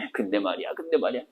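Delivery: soft, low muttering to himself; talking to himself. Retold or imitated. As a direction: brood over it under your breath. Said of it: "지가 지한테 계속". (혼잣말로 나직하게 되뇌기)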